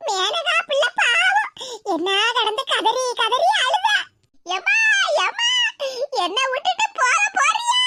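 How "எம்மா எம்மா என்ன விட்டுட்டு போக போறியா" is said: higher, laughing sob of mock grief; hammed-up wailing. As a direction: wail over the bedside like a mourner. Old woman's exaggerated wailing. (நாடகமான ஒப்பாரி)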